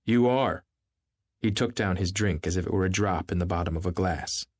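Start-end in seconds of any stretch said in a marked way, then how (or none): 0.0-0.7 incredulous. Acted. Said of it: "looked at her incredulously".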